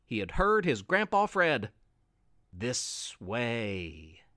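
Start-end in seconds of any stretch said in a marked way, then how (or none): 2.5-4.2 very low, soft sinister whisper; a lurking creature beckoning; dark voice. A narrator's reading. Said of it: "that same dark voice".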